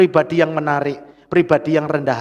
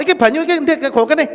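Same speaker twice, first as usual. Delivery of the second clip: higher, curt demanding command; harsh rude order; 8 semitones higher, 4 dB louder than usual. Shown as a demonstration. Pastor showing congregation a rough demand, harsh. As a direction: shove the words at him impatiently. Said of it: "nek saya ngomongnya kasar".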